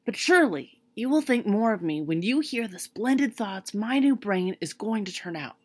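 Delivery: a hopeful scarecrow announcing good news. A narrator's reading. Scarecrow boasts of brains.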